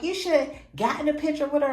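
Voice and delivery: mock the mother's annoyed scolding; upset mom. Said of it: "my mom was upset".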